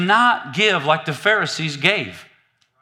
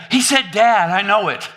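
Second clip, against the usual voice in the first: lightly acted parental excitement; excited parent; 4 semitones higher, 4 dB louder than usual. Parent hearing baby's first word, excited. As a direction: pipe up proudly, a bit higher and louder. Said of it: "we get all excited".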